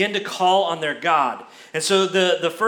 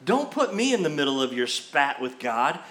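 mildly affronted, keeping out of it; acted-out touchy objection; mock attitude. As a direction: push back with light sass. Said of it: "you can just sense his attitude".

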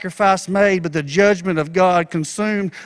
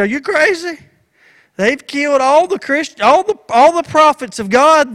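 incredulous protest; 2 semitones higher than usual. Acted. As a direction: act out an alarmed servant protesting. Acted alarmed protest of Obadiah.

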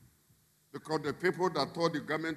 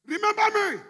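high, louder plea; pleading cry; 5 dB louder than usual. Acted. Preacher voicing every laborer's cry, high plea. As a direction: cry out to be remembered. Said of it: "It's the cry of every man".

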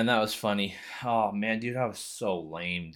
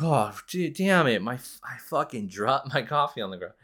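raised, put-on frustration easing off; mock dismay; 5 semitones higher, 3 dB louder than usual. Boy pretending he dropped coffee by accident, mock dismay. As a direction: lightly replay the fake upset.

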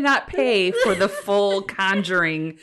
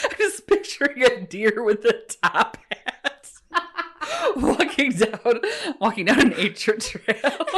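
giggling; 4 semitones higher than usual. Real, not acted. Describes deer, giggling.

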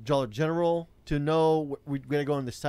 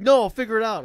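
high, raised-voice mock protest; imitated pleading rider; 8 semitones higher, 8 dB louder than usual. Rider threatened with being put out, mock pleading. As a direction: mimic a flustered passenger begging off. Retold rider begs to stay.

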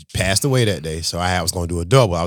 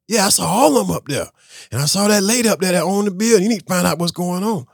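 assistant voice continued; 10 semitones higher, 3 dB louder than usual. Retold or imitated.

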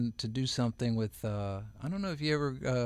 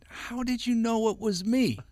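surprised; 11 semitones higher than usual. Retold or imitated. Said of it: "I said".

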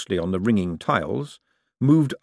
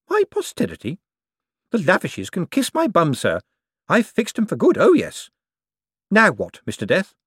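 much higher, louder cackling crone; gleeful defiant old lady; 11 semitones higher, 5 dB louder than usual. Acted. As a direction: crow it, triumphant and unrepentant. Topsy defiant to Death.

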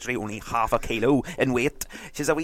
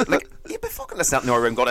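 usual speaking voice

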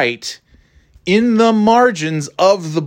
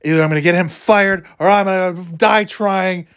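mock-irate vow, pitched higher; 6 semitones higher than usual. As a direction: swear revenge with exaggerated outrage. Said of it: "I was, I was irate".

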